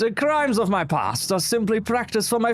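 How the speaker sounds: slow, dark vampire declaration, rising high; vampire persona. Acted. Impostor vampire star slowly boasts of evil to reporters. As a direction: savour every evil word slowly. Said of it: "you told me to talk like a vampire".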